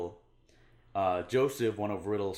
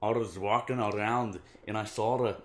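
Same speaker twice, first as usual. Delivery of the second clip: badly faked brogue, a bit loud; hammed-up attempt at a Scottish accent; attempted Scottish-sounding accent; 2 semitones higher, 5 dB louder than usual. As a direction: attempt a Scottish-like burr and give up. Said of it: "that's more of a Scottish thing".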